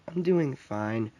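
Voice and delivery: soft, slow, understated sigh of a reply. A narrator's reading. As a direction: answer quietly and unhurriedly, with a light sigh. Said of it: "She sighs and says".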